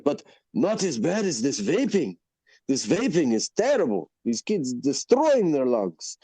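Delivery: lightly imitated owner lamenting, drawn out at the end; mock-grave warning from a storyteller; restaurant owner. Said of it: "He's like".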